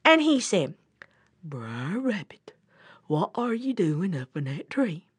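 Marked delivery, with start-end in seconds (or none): 1.4-5.1 puzzled bear. Acted. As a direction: ask it low and ponderously. Slow bear questions rabbit.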